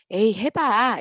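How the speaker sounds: cheerful, bright, playful joking tone. Showing a line said while patting a friend's back: bright, playful tone. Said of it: "말투는 밝고 장난스러운".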